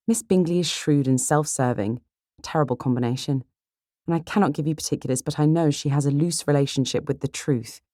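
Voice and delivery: cool, lightly voiced judgement; measured sister Elizabeth. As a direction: deliver a considered verdict, lightly in character.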